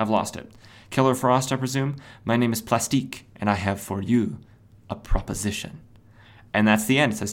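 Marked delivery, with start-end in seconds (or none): 0.9-5.8 put-on French accent, quieter. Reading a comic villain's line aloud: french accent. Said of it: "she has a French accent".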